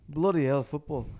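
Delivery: put-on light Scottish accent, gruff; half-hearted Scottish manager voice; a hint of a Scottish accent, grumbling; Sir Alex impression. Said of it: "sounded like Sir Alex".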